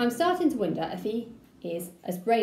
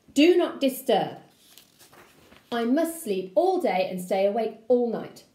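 grumpy uncle; 4 dB louder than usual. Acted. Uncle voiced gruffly.

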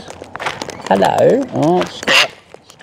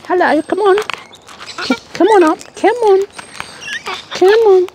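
sing-song call to the birds; calling chickens. Real, not acted.

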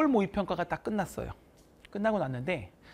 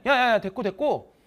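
emphatic teacher; 4 semitones higher, 5 dB louder than usual. Retold or imitated. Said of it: "내가 뭐라 그러냐면".

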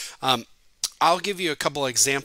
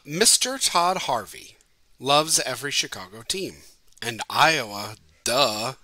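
reading a haiku; 3 dB louder than usual. Shown as a demonstration. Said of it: "here are two I literally just wrote".

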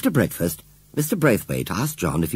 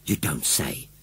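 surprised cry; 5 semitones lower, 7 dB quieter, slower than usual. A narrator's reading. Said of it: "cried Missus Braithwaite".

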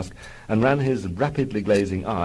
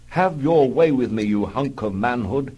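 hammed-up coy plea, higher and louder; chained wing commander begging, coy and hammed up; coy come-on; 3 semitones higher, 4 dB louder than usual. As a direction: flirt coyly in a mock-seductive voice. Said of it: "he hinted coyly".

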